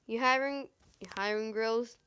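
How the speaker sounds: lightly voiced lazy skeleton, half-hearted try; terrible Sans voice. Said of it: "That was my terrible attempt to do Sans voice".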